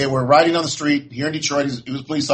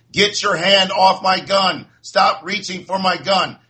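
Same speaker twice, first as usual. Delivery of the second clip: retold police scream, raised pitch, drawn out; mock-yell the officer's commands slowly, voice only partly raised; imitated screaming; 4 semitones higher, slower than usual. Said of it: "you can hear the officer screaming".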